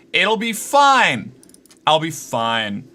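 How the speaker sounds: slow, drawn-out forced reassurance; forced calm. Real, not acted. Streamer to chat about the broken camera, slow forced calm. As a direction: talk yourself down, slowly.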